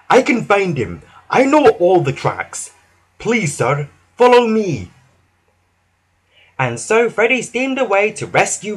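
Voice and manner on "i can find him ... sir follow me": high, resolute character voice; determined old engine volunteering; whistling loudly. A narrator's reading. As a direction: take charge, lifting to a louder last call. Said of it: "whistled Freddy loudly".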